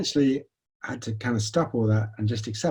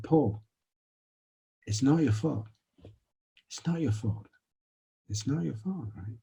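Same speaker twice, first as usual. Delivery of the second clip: compassionate self; 3 semitones higher, 5 dB quieter than usual. Retold or imitated. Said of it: "my compassionate self turned up".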